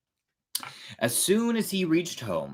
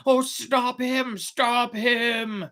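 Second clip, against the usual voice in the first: mild shout; 11 semitones higher, much slower than usual. Acted. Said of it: "shouted Geppetto".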